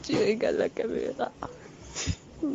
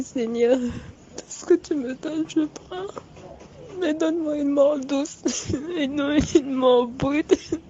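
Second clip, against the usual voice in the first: tearful prayer; 2 semitones higher, slower than usual. Real, not acted. Woman praying for a gentle death, crying. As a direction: beg God for a gentle death through tears.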